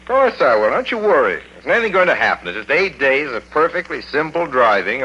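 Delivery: breezy reassurance. Acted. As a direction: laugh off her worry. Son reassures worried mother.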